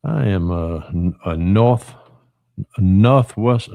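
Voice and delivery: half-hearted attempt at a Northern accent. Southerner denying he's South Georgian, mock Northern accent. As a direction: try a Northern accent and stumble over it. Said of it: "say it in my best Northern accent".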